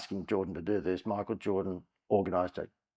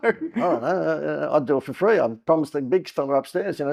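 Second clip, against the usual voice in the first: laughing answer; 9 semitones higher, 9 dB louder than usual. Retold or imitated. Pitching his TV show to the programmer, laughing. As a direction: laugh off the price question.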